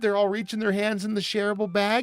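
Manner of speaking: high, fast commercial narration; lightly hammed-up ad voiceover; ad narrator voice. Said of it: "It's a commercial".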